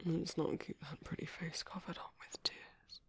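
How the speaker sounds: soft coaxing whisper; tender whisper. Acted. Keeper offering tissues to a crying guest, soft whisper. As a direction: gently tease the tears away. Wiping his tears.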